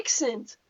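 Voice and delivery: "Accent" said the horrible way; deliberately awful "Accent", softly demonstrated; horrible pronunciation. Shown as a demonstration. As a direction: mimic your own slipped vowel in "Accent". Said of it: "That is, that is horrible".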